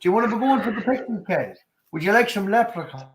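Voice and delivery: put-on stereotypical Irish accent. Panelist teasing the others on request, hammed-up Irish accent. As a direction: lay on a mock leprechaun-country brogue.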